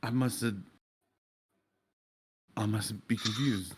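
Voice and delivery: gentle William, softly apologetic. Acted. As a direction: speak quietly and kindly to him. William answers the grieving father.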